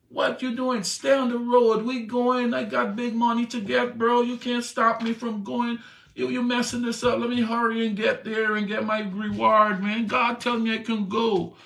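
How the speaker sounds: a greedy rider fed up and in a hurry; impatient Balaam. Acted. Balaam scolding the donkey on his way to the reward, impatient.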